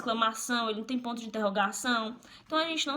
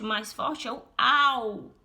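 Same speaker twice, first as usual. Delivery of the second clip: "au" pushed louder; stress on AU; 4 dB louder, slower than usual. Shown as a demonstration. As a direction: lean on "au" to show the strong syllable. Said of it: "Só que o bum não é a mais forte". (ênfase no "au")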